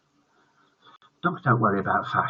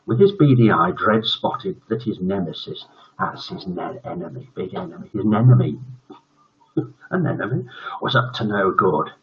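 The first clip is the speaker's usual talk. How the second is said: story narration; 3 semitones lower than usual. A narrator's reading. Narrating a story aloud to kids.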